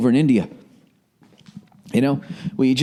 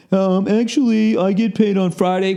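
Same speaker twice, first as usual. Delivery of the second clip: pedantic coworker voice; 5 semitones higher than usual. Acted. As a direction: correct him like a know-it-all. Acted payday exchange, second voice.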